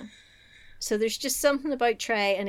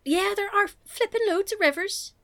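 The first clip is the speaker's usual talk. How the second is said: put-on higher, casual Manchester accent; 9 semitones higher than usual. Chatting to a friend about London's rivers, in a Manchester accent. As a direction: slip into a Manchester accent mid-sentence. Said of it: "with the Manchester accent".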